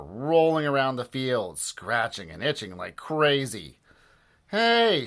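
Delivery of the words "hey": high shouted hey; coach's shout. Acted. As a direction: call the team's attention. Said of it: "shouted the ch-, coach".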